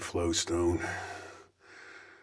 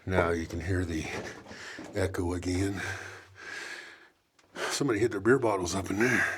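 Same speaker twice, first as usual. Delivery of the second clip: winded from crouching; panting while bent over; breathing hard. Real, not acted. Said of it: "Sorry, I'm breathing hard, being bent over".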